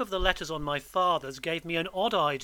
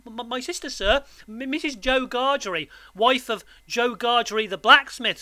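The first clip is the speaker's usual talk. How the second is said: high, nervous stammer; frightened boy; 6 semitones higher, 5 dB louder than usual. A narrator's reading. Boy names his sister to convict, stammering fearfully. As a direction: trip over the first sounds anxiously.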